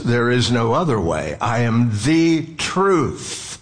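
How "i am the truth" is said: slow, "the" in "I am the truth" given the weight; stress on THE. Shown as a demonstration. Preacher to congregation, slowly stressing "the" in "I am the truth". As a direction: dwell on "the" in "I am the truth" as the only truth. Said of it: "that accentuates the statement".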